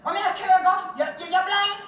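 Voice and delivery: high, loud alarmed cry at the driver; panicked outcry. Retold or imitated. Woman frightened in the car cries out at Keith. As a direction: cry out in alarm, demanding answers. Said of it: "I came out with a voice".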